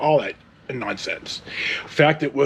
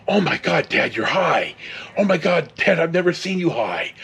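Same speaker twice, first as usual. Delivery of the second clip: higher, excited teasing cries; beside himself; 4 semitones higher than usual. Retold or imitated. Son teasing his high dad, gleefully beside himself. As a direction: crow like a kid who caught his dad out. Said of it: "the ingrate is just beside himself".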